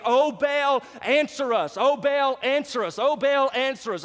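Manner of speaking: lightly voiced chant of pleading prophets; crying out to Baal. Preacher mimics prophets pleading to Baal, mild mock cry. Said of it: "they were crying out this same exact thing".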